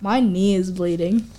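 flat, even monotone. Retold or imitated. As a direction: say it with no feeling. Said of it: "in the most monotone voice".

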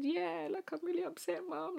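as if welling up while admitting it; tearful confession. Retold or imitated. Telling her mum she's upset, tearful and quiet. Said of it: "I remember just bursting into tears".

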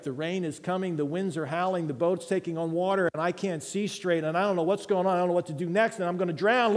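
panicked plea. Pretend. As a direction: cry out like someone sinking in the storm. Preacher voices a drowning believer.

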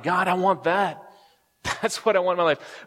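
retold prayer, high and emphatic; fervent plea. Listener cries out to God on hearing Terry, fervent plea.

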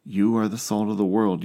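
You said firmly, landing on it; stress on You. Shown as a demonstration. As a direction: lean on You, then let the line fall. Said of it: "the you is emphatic".

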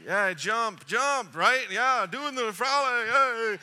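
loud, high celebratory whooping; hammed-up jubilant shouting; going crazy. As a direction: cheer on a wild victory dance. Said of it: "We're going crazy".

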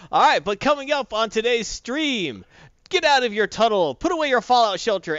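punchy stream rundown, settling toward the end; show announcer. Acted. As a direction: announce the lineup like a show host. Announces today's stream lineup.

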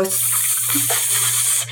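cobra hiss. Pretend. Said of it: "my Cobra hood goes up".

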